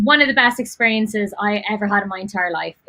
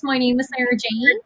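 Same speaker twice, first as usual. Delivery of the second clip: put-on posh Dublin accent. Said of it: "always spoke like this".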